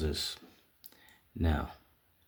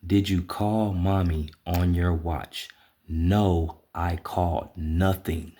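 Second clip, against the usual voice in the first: slow breakdown; slower than usual. Retold or imitated. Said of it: "Let me break that down for you".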